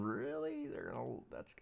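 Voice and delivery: rising, high disbelieving Really; incredulous disbelief. Retold or imitated. Trader staring at an untested level in disbelief, rising pitch. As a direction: sound like you can't believe it stays untested. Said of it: "It just leaves you going".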